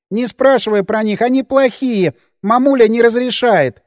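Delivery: a hint of a fearful man-child; childlike Albertik. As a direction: speak like a scared grown child. Albertik answers evasively.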